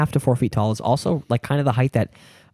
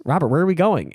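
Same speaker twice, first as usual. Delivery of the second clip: higher, lightly imitated little creature; little alligator man; 5 semitones higher than usual. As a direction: play a small alligator man asking. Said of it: "the little alligator man goes".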